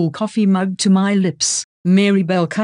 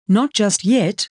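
croaking; 2 semitones higher than usual. Acted. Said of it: "she croaks".

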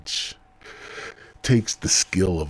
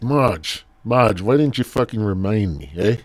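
calling Marge; 5 semitones higher, 8 dB louder than usual. Real, not acted. Scolding Marge for not reminding.

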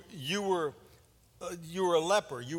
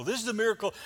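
higher and louder, amazed; 5 semitones higher, 4 dB louder, much faster than usual. Acted. Lepers seeing their healing, amazed. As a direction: marvel at the miracle.

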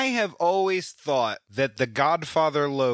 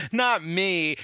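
Kay; 5 semitones higher than usual. Retold or imitated. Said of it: "It's thinking, like".

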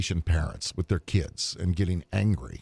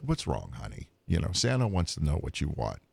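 gentle Santa comfort; 2 semitones lower than usual. Retold or imitated. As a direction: ease a crying child like Santa. Santa comforting a crying girl.

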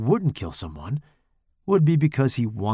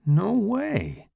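higher, incredulous exclamation; disbelief; 8 semitones higher than usual. A narrator's reading. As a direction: say it as if you can't believe it. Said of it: "still in disbelief".

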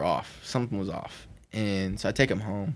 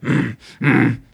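mock beastly throat growl; beast noises; 4 semitones higher, 10 dB louder than usual. Storyteller imitates his attacker going crazy, beastly growl. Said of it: "making noises".

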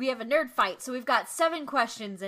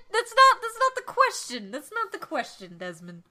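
exasperated; 5 semitones higher than usual. Real, not acted. Exasperated protest.

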